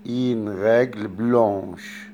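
slow French غاجل بلانش, sh sound at the end; French example. Shown as a demonstration. Teacher slowly models a French phrase for students. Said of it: "أقول مثلًا".

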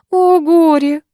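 high, loud woeful moan; nanny moaning in high, loud grief. A narrator's reading. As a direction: lament it like a stage tragedy. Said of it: "стонала Краузе".

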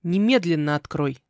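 loud, firm demand; insistent command. Acted. Man outside repeating his order to the heroine, insistent. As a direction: press hard on the order. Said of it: "настойчиво повторил".

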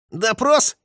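high, bitter one-word retort; angry. A narrator's reading. Orlov angrily throws the word back at Yermakov, bitter retort. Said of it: "зло произнёс Орлов".

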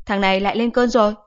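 a hint of an exasperated mom; mock-annoyed mother voice; grumbling mother.

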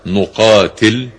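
نقاتل with initial n and vowelless final lam; نقاتل read as "nuqaatil"; nun and jazm. Shown as a demonstration. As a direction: say نقاتل slowly, starting with nu-, ending on a bare l. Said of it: "بالنون والجزم".

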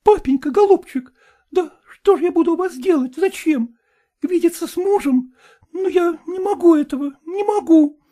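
put-on high, imploring young woman; high-voiced daughter pleading. A narrator's reading. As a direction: beg your father not to make you go.

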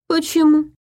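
high, exaggerated feigned surprise; mocking the detective with put-on wonder. A narrator's reading. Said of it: "нарочито удивился тот".

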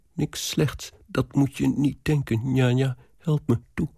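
a touch of anxious pleading; girl begging her nanny for help; pleading young girl. Acted. (licht smekend meisje)

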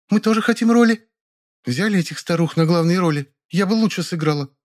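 put-on high, sniffy girl's complaint; snorting disdain. A narrator's reading. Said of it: "фыркнула Лапина".

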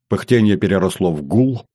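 usual speaking voice

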